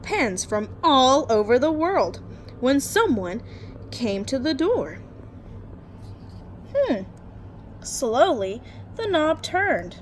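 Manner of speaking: lively storytime read-aloud; story narration. Acted. Teacher reading a bedtime picture book to her class, lively storytime voice.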